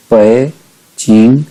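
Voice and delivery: पै as half third tone, then चिंग. Shown as a demonstration. Teacher repeating for students, पै halved before चिंग. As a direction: separate पै and चिंग, halving the dip on पै. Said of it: "third tone को half pronounce करेंगे".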